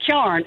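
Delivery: "Kjarn" as one syllable, KYARN; a y-glide after the k in "Kjarn"; regional pronunciation. Shown as a demonstration. Teaching visitors the local word, "Kjarn" as KYARN. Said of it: "you'll know to say Kjarn".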